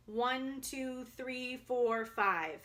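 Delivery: counting out strongly from the breath; projecting. Shown as a demonstration. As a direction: project each number.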